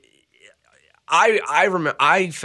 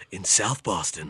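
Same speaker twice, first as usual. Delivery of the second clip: movie trailer voice; 3 semitones lower, 6 dB quieter than usual. Pretend. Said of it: "your movie trailer voice".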